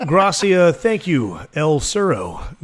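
lightly mocked dad's bad Spanish accent; fake Spanish accent. Dad thanking the waiter, mock Spanish accent. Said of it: "his idea of speaking Spanish is just using an accent".

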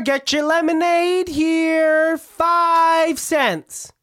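high, slow sing-song vendor call; lemonade seller. Pretend. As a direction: hawk lemonade like a cheerful kid. Lemonade stand seller calls out.

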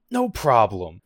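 imitating a weirdly sassy tone; mock-cheerful, like someone secretly pissed off; a touch of forced happiness; fake happy. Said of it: "it's just that weird tone".

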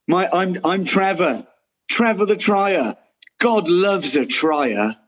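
slow, drawn-out stage delivery of Trevor; reciting a remembered stage line. Acted. To the castmate Rod, slowly reciting Trevor's line from the show. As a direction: savour each word like an actor back on stage. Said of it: "I have remembered a line".

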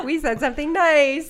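slow words through laughter; laughing. Real, not acted. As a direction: still laughing while talking. Group laughing fit.

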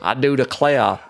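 put-on Southern Georgian accent. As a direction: declare it like a Georgian gentleman detective. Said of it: "that weird Georgian accent".

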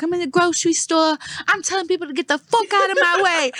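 loud, high mock New York accent; hammed-up Brooklyn woman, brash and loud. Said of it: "I know I butchered it".

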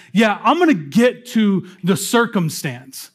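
casual Jesus voice. Retold or imitated. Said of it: "Jesus is looking at this man and says".

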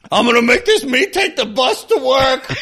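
high, hammed-up movie character rant; mock frenzied shout. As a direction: shout it in comic fury. Voicing Dom beating the meat.

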